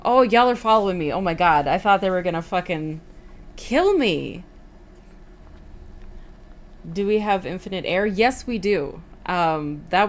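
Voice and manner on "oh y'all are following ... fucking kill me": loud, fast relieved rush; excited relief. Real, not acted. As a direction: blurt it out in relief. Relief after being chased.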